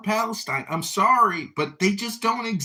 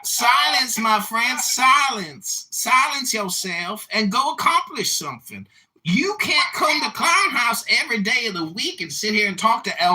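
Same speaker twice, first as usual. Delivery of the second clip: put-on troll voice. Troll lecturing the room in a put-on voice. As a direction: preach at the room in the fake character. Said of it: "I guess I can stop talking like this now".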